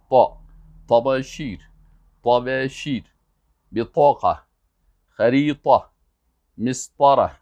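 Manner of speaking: heavy, emphatic Arabic ط in "طا", "طباشیر", "بطاقه", "خریطه", each word set apart; careful Arabic ط. Shown as a demonstration. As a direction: model the Arabic ط firmly in "طباشیر" and "مسطره". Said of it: "شما به عربی طا را درست تلفظ کنین".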